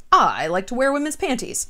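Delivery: a hammed-up blurted confession; mock shameful confession. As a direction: blurt it out like an embarrassing secret. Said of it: "It's not like".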